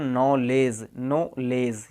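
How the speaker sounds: "नॉलेज" as no-lez, no K or D; silent K and D. Shown as a demonstration. Teacher models spelling rule for learners, "नॉलेज" with silent letters. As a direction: say "नॉलेज" starting on N, no D before the end. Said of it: "इसको भी अपन ने silent कर दिया".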